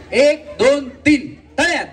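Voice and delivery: high game count-in; calling game commands. Real, not acted. Host calls out game count.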